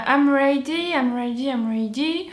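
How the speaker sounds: proud, over-the-top English accent on I'm ready; sing-speak the lyric in a heavy English accent. Shown as a demonstration. Vlogger showing off her English accent on the lyric. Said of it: "Vous avez vu mon accent de malade".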